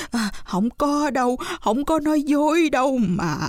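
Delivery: high, stammering frightened plea; terrified widow. Acted. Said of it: "bà cụ sợ quá".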